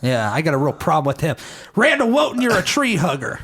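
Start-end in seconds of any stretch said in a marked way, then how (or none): 1.8-3.4 mocking call-out. Mock call-out to rival comic.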